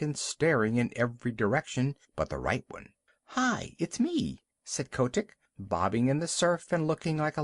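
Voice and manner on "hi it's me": put-on young seal calling. A narrator's reading.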